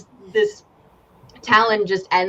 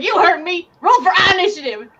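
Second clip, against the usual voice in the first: higher, firm mock threat; mock menace; 8 semitones higher than usual. Game master repeats the challenge, menacing. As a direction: repeat it like a dare.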